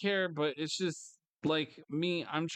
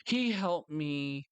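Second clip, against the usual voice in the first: mock believer; much slower than usual. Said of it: "when something good happens".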